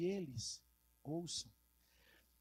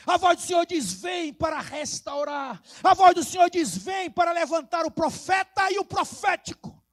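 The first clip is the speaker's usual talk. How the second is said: insistent refrain building louder and higher; rousing preaching; 6 semitones higher, 11 dB louder than usual. Acted. Preacher calling people to restoration and miracles, rousing full force. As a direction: drive each repeated call home to the church.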